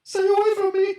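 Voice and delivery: high, loud cry from a cornered stranger; shouted warning. Acted. Stranger in the cellar warns off intruders, high shout. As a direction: yell it to keep them back.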